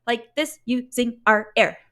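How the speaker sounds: "like this using our air" chopped word by word; huffy articulation. Shown as a demonstration. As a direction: punch each word of "like this using our air" with a separate puff. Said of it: "It just doesn't sound good".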